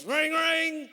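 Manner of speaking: high, ringing telephone imitation; mock phone ringing; imitated phone ring. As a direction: trill it like an old telephone.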